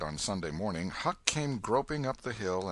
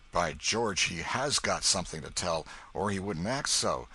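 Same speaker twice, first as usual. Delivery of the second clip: put-on old man exclaiming. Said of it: "exclaimed the old man".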